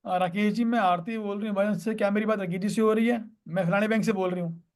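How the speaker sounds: rattled off without a pause; run-on telemarketer script. Shown as a demonstration. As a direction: recite the whole call opener in one breathless run. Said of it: "वो नहीं करना".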